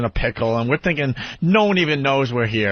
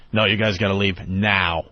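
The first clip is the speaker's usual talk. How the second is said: low, slow firm order; stern guard; 6 semitones lower than usual. Retold or imitated. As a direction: lay down the law slowly.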